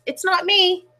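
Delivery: high little mouse squeak. A narrator's reading. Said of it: "Mouse scurries up and squeaks".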